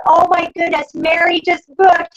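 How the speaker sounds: slow, loud mock-cheer for the table; excited announcement. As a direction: call it out to the whole party. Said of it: "you then shout out".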